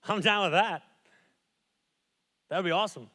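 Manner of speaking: eager, delighted and loud; excited. Retold or imitated. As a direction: jump at the offer happily. Dad's eager reply to his kids.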